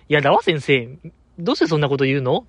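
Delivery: quick-fire mock old-film actress line; 早口の昔の映画女優. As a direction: lightly imitate an old Japanese film heroine, talking fast. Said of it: "えらい早口で言うモノマネありますけども". (昔の邦画女優を軽く真似た早口)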